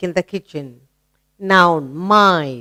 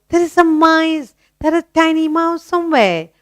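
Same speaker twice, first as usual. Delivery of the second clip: higher-pitched mock alarm, lightly acted; mama raising the alarm; 7 semitones higher than usual. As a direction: play mama spotting a mouse. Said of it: "immediately mama will say".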